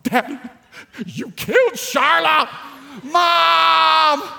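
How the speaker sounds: put-on high, shouting child's horrified cry; screaming to Mom like a shocked little girl; horrified little daughter. Daughter yelling for mom over the dead pet, high horrified shout. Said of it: "She was horrified".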